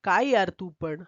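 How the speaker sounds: a touch of pained, slow complaint; mildly hurt, drawn-out plea to a friend; cat gently pained at the elephant. Acted. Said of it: "कळवळून हत्तीला म्हणालं".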